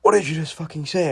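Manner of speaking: high, loud mock yell at a student; retold teacher's shout. Teacher shouting at a student over a game question, loud mock yell. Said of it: "she's shouting at me".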